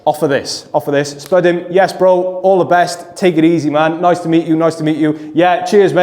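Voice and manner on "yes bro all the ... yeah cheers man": high, louder breezy farewell; upbeat bro goodbye to slip away; friendly cheery goodbye. Shown as a demonstration. Demo friendly goodbye while leaving.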